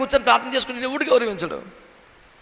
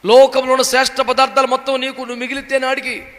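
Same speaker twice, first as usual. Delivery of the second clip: ordinary talk, nothing marked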